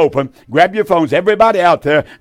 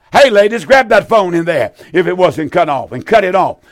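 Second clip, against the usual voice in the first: yelling at the ladies. Real, not acted. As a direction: call out to the back room. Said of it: "I'm yelling at 'em".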